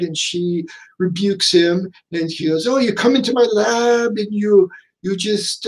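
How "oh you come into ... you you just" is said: imitating Jamaican accent. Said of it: "maybe it's Jamaican accents".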